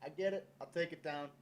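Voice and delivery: fast, high hurried backpedal; quick backpedal. Retold or imitated. Guy backing down to his friend, fast and sheepish. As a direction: rush out the apology, then wind it down. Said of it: "I'm like".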